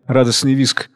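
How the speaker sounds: usual speaking voice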